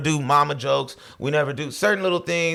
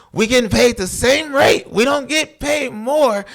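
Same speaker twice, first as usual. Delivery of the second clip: insistent reassurance; 5 semitones higher than usual. Retold or imitated. Speaker reassuring Boo, animated.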